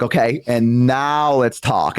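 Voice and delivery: calm mom. Retold or imitated. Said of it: "and she's like".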